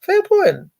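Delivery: mock cop conceding. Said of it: "the cop could see in his face going".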